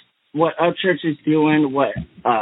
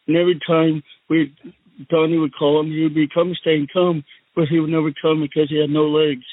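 Donald Trump impression. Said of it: "and I'm the Donnie Trump".

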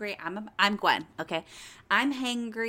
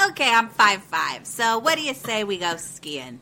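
mock loud proposal; 7 dB louder than usual. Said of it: "this lady in this periwinkle suit's like".

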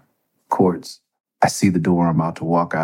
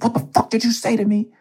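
much higher, aggressive mock sheriff; hammed-up furious sheriff; sheriff's challenge. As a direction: imitate a small cop squaring up. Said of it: "He said".

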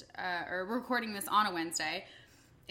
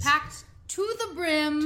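playful drawl; 5 semitones higher, 5 dB louder, slower than usual. Pretend. Playful drawn-out phrase.

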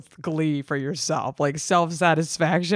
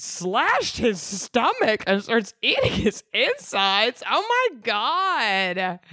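shocked reading; 4 semitones higher, slower than usual. Real, not acted. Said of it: "What the hell is going on with you".

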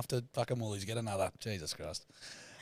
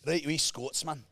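Scottish accent; 4 semitones higher, slower than usual. Shown as a demonstration. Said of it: "teaching the Scottish accent".

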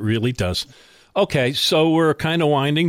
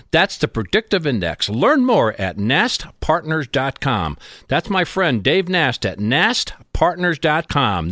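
ad read. Acted. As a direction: sell it like a radio spot. Host reads sponsor ad.

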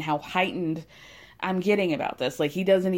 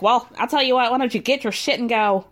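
snapping; 3 semitones higher, 5 dB louder than usual. Retold or imitated. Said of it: "Stan snaps immediately".

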